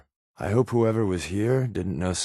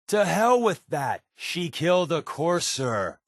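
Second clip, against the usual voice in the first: indignant outburst; 6 semitones higher than usual. Acted. Deacon objecting to Des about the newcomer, indignant outburst. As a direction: throw the objection right back.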